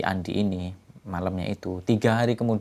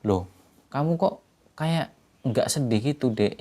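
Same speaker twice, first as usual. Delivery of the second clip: higher, baffled question; puzzled brother surprised his sister isn't sad; puzzled surprise; 5 semitones higher than usual. Acted. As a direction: caught off guard by her calm. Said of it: "Mas Angga malah bingung".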